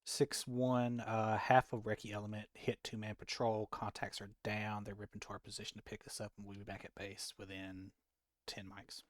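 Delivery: crisp military radio report; radio call voice. Acted.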